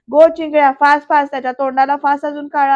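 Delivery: loud, bossy order from a gang boss; imitated bossy shout. Gang boss barks at henchman to blacken the face, loud mock order. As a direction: yell the command to blacken his face.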